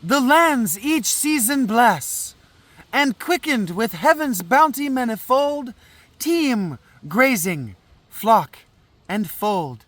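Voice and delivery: put-on declaimed verse in a French accent. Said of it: "actually a really good French accent".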